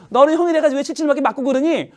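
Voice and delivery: mock-exasperated, high-pitched nagging; acted maternal telling-off; scolding mother. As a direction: play a mother chiding her son. Acts mother scolding son.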